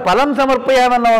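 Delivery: ఫలం said as "palam", with no puff of breath; ఫలం with a plain p sound; unaspirated first consonant. Shown as a demonstration. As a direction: drop the aspiration at the start of ఫలం. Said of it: "ఆ ఒత్తు పలకలేదనుకో".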